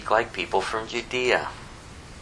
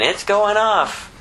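much higher, hammed-up sailor blowing up; mock fisherman outburst; 10 semitones higher, slower than usual. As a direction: play a fisherman letting loose, tongue in cheek. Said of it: "He's got the fisherman mouth".

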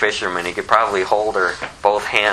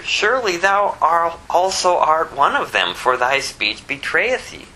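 bystanders accusing; 7 semitones higher than usual. Retold or imitated. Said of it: "they that stood by said to Peter".

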